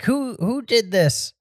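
imitating the cop. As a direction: drag out the question like a puzzled cop. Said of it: "he's like".

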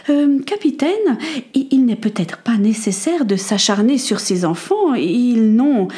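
airy, faltering lady; hesitant intervention. Acted. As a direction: intercede timidly, trailing off.

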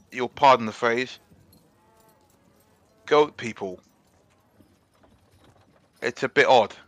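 lightly voiced constable, careful and polite; a hint of a courteous sergeant, apologising; polite English policeman. The speaker in character.

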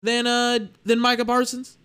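high, fast, pitch climbing in disbelief; can't believe what you're seeing, voice up high; stunned fan mocking the hype, high and quick; incredulous disbelief. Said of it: "I was just like".

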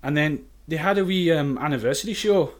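put-on chatty anecdote in a convincing Scottish accent. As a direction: tell it casually as a Scot. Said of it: "I'm not even Scottish".

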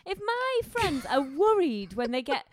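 laughing. Real, not acted. Mock-solemn public warning.

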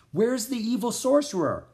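high, puzzled, urgent question; baffled question. A narrator's reading. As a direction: demand to know, bewildered. Baffled Jack asks Merlin.

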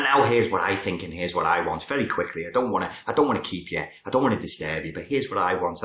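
acting out someone rushing their own point; hurried self-effacing summary. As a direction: rush it through as if afraid to keep them. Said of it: "you kind of speed up your own".

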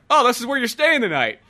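high, loud smug reveal; mock smug partner. Friend voicing the partner dumping him, smug. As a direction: break the news smugly. Retelling movie dialogue.

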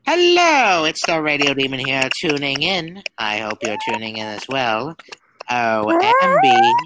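radio host demon voice; Alastor voice. Retold or imitated. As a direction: announce it like an old radio host. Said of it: "I could actually do an Alistair voice".

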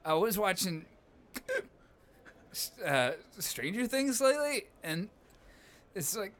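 put-on hiccuping drunk, slurring a little; drunk with hiccups. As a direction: play it tipsy, hiccups breaking words. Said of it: "No, I'm hiccuping 'cause I'm drunk".

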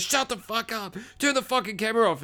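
high mock-furious order, held back in volume; hammed-up strained anger; going crazy. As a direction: imitate a crazed man giving orders. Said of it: "he starts going crazy".

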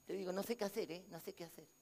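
imitating a discouraged believer, low and quiet; mock despondent. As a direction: sound like someone who has given up. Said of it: "No, diciendo".

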